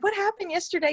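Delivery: high-pitched quoted question, lightly put on; a hint of incredulous husband; imitated puzzled husband. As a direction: play a husband baffled by the turnaround.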